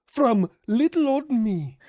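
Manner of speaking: put-on a light Ukrainian accent, jumping high on What's that; mock-innocent Ukrainian accent, slowing on little old me; Zelensky accent. Gamer playing Zelensky asking America for help, lightly accented. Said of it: "do my best Zelensky accent".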